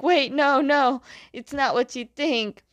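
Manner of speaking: head them off, voice lifted; hasty protest. Retold or imitated. Zuko stopping his friends' attack, protesting.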